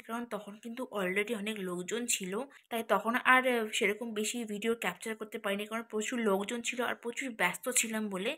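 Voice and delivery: hushed late-night voice; speaking softly. Real, not acted. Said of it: "আমি আস্তে আস্তে কথা বলছি".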